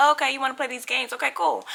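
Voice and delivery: soft, fast and cool; quiet menace. Retold or imitated. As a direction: hush it down like a threat. Quoting herself, quietly threatening.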